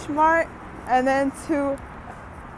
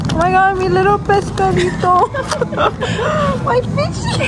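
put-on cutesy baby voice; 7 semitones higher than usual. Baby talk to her food.

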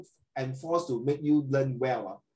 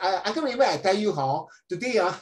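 mock pupil; 5 semitones higher, 4 dB louder than usual. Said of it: "they don't talk like this".

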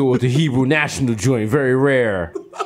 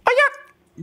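mock surprise. Retold childhood surprise.

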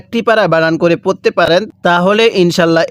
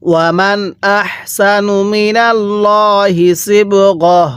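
slow, drawn-out tajweed chant; Quran recitation; 2 semitones higher, much slower than usual. Shown as a demonstration. Teacher recites the verse for students, slow tajweed chant. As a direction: intone each syllable slowly like a reciter. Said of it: "এবার মিলাই পড়ুন".

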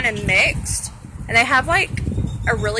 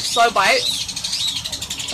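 slowly. Real, not acted. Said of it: "eat really slow".

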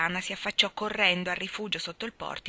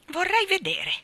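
haughty refusal; 11 semitones higher, 3 dB louder than usual. A narrator's reading. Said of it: "rifiutò altezzosamente Diana".

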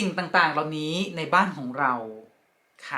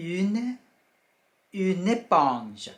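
slow teaching; 3 semitones higher, much slower than usual. Shown as a demonstration. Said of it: "อ่านว่า".

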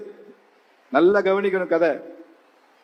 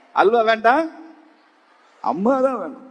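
lightly imitated tearful whine; a touch of a pretend sobbing boy; mock crying child; 3 semitones higher than usual. Boy tells old man he wants mother, light mock crying. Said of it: "இவனுக்கு அழுக நிக்கல".

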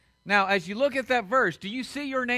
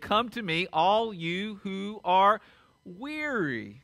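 tender invitation; much slower than usual. Acted. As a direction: draw out the words like a gentle invitation. Reading Jesus' words gently.

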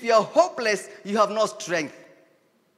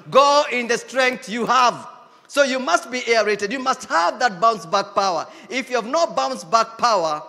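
preaching shout; 3 semitones higher, 6 dB louder than usual. Real, not acted. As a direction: proclaim it as a rallying charge. Preaching exhortation.

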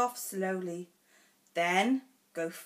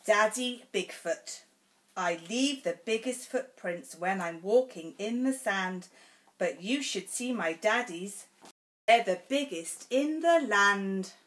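bold stomp. Acted. Reads picture book to child.

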